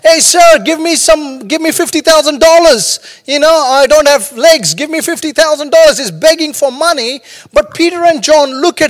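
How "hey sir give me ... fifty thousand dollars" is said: pushy beggar. Acted. Beggar at the gate begs Peter and John, pushy and higher. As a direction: wheedle the passing rich man for cash. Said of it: "and he's saying".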